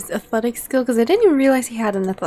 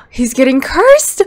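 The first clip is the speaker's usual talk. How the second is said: excited shout; 9 dB louder than usual. Real, not acted. Repeats with gasp.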